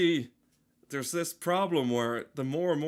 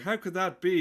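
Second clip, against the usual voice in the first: mock bewildered; 6 semitones higher, 4 dB louder than usual. Baffled by warm day.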